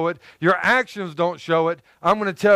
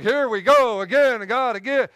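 mock weary sigh; 4 semitones higher than usual. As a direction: drag it out like a tired chore. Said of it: "Do you see the emphatic".

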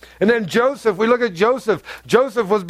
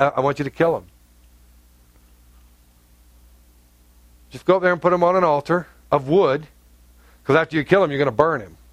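hint of God's low voice; 5 semitones lower, faster than usual. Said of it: "God tells Abraham".

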